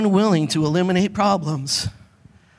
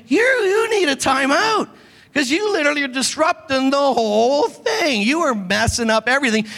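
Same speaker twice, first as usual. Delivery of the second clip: stern timeout; 4 semitones higher than usual. Retold or imitated. Pastor voicing a stern timeout.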